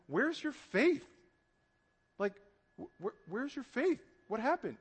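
high, unhurried, gently puzzled question; calm questioning. Acted. Jesus looks at the disciples, calm questioning. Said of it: "calmly and says".

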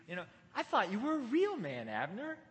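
lightly mocking tease; sarcastic taunt. David taunts the sleeping guard Abner, sarcastic taunt. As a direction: needle him with playful sarcasm. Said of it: "the sarcasm and the joke in this".

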